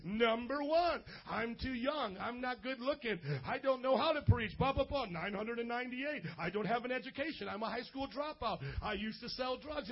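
mock protest, ticking off reasons one by one; lightly acted run of excuses; listing excuses. The speaker arguing with God's call, hammed-up excuse list. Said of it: "I pulled out all my excuses".

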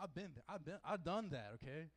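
street slang, laid-back swagger; ghetto slang voice. Shown as a demonstration. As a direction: put on a street voice. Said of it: "I'm gonna talk all ghetto now".

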